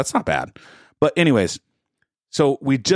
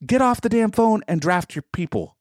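exasperated rant; 9 semitones higher than usual. Retold or imitated. Ranting at drafter.

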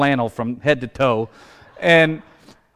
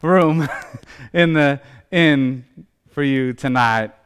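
laughing apology; 2 semitones higher, 4 dB louder than usual. Retold or imitated. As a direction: burst out laughing as the joke ends. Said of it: "for the joke to be over".

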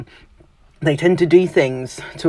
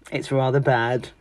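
blunt verdict. Retold or imitated. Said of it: "What they mean is".

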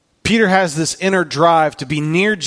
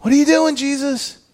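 raised but softer, the question falling to a tired "Jesus"; quieter exasperated plea; 11 semitones higher than usual. Retold or imitated. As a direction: ask it worn out rather than yelling. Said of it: "the rawness of Peter".

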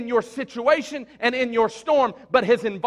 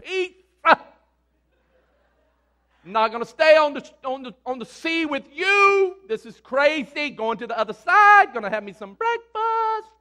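lightly voiced Jesus; 5 semitones higher, 3 dB louder than usual. Voicing Jesus casually passing by.

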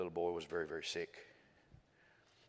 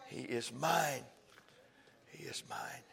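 fading to a whisper; 6 semitones higher, 8 dB louder, slower than usual. Real, not acted. Preacher easing the crowd down after the climax, fading. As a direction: bring it down to a whisper.

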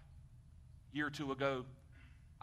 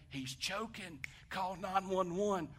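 retold alarm; 5 semitones higher, much slower than usual. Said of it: "as soon as they said".

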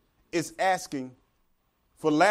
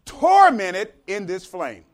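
slow, louder, anguished begging; tormented plea; 3 semitones higher, 8 dB louder, slower than usual. Acted. Rich man in hell begging Abraham, slow anguished plea. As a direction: beg for relief from the flames. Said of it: "He says".

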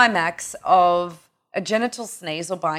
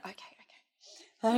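softer and slow, backing down; meek okay; 10 dB quieter, slower than usual. Retold or imitated. Mother backing down to her daughter, soft and slow. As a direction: placate her gently. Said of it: "mother backing down".

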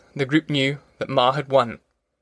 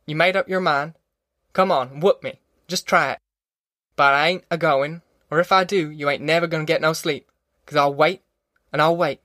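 higher-pitched, stubborn country mother; defiant Ma; 3 semitones higher than usual. Acted. Ma daring Pa to whoop her, higher-pitched defiance. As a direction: threaten him steadily, without shouting. Ma dares Pa.

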